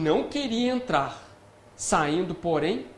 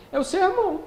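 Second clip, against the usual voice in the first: eager servant; 4 semitones higher than usual. Acted. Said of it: "ele fala assim".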